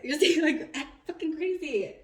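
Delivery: high, loud laughing urge; laughing loudly. Real, not acted. Reader laughing loudly urging the viewer to act crazy. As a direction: cackle as you egg them on.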